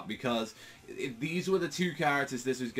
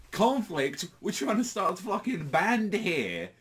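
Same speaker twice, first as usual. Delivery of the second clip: mock Bakugo outburst; 10 semitones higher, 4 dB louder than usual. Bakugo outburst voiced in retelling.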